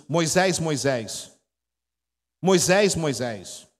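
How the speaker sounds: firm call, each repeat dropping away; summoning voice from the burning bush. Acted. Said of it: "sai uma voz dessa sarça".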